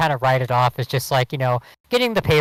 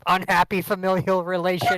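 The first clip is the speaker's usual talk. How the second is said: robot voice; 5 semitones higher than usual. Pretend. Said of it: "the robot that doesn't know how humans speak".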